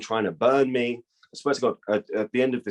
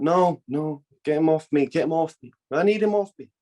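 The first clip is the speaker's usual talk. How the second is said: panicked pleading; 7 semitones higher than usual. Retold or imitated. Girlfriend talking in her nightmare.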